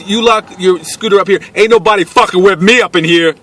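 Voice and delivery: high, swaggering neighbour voice; imitated gunman. Gunman promising to guard the scooter, high swaggering imitation. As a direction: boast it as the armed stranger.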